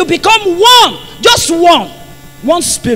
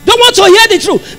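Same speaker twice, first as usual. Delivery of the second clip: raised, high-pitched preaching; emphatic repeat; 4 semitones higher than usual. Real, not acted. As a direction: drive it home in a higher voice.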